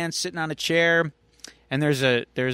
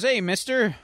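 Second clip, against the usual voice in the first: put-on kid voice; 8 semitones higher than usual. Kid voiced in retold scene.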